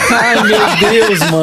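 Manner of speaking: high, slow laughing words. Real, not acted. Laughing at the pun.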